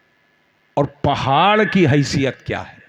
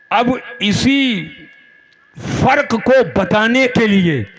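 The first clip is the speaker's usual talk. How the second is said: emphatic oratory with held pauses; fervent preaching; 5 semitones higher than usual. Real, not acted. Preacher sets two groups against each other, emphatic sermon oratory. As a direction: lay out each phrase for a big crowd.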